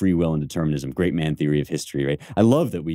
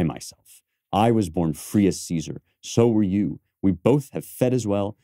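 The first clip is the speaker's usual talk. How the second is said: reciting Cassius. Shown as a demonstration. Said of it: "try again".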